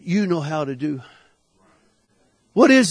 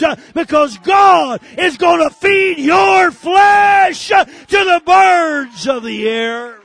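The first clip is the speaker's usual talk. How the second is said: loud, high, fervent preaching; preaching at full force; 6 semitones higher, 3 dB louder than usual. Acted. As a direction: thunder it out like a revival preacher.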